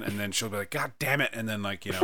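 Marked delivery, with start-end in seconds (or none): 0.7-1.3 mock exasperation. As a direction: play an exasperated girlfriend hearing that tune. Acts out girlfriend's exasperation at song.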